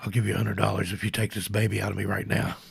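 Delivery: mock, put-on demonic voice. Retelling her niece bargaining with the doctor during a long labor, mock demonic voice. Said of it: "She sounded like a demon".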